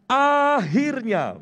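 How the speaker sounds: slow, drawn-out relieved "Akhirnya"; relieved sigh of a word. Retold or imitated. Worker finally finishing a draining project, slow relieved sigh. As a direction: let it out like a long breath after hard work. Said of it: "melontarkan kalimat kelegaan".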